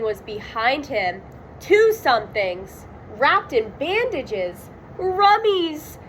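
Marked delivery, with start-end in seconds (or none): 5.0-6.0 high cartoon-dog yell with R for M; Scooby yell. Scooby spots the mummies, scared dog-voice yell. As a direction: yelp it like a scared Great Dane. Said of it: "yelled Scooby".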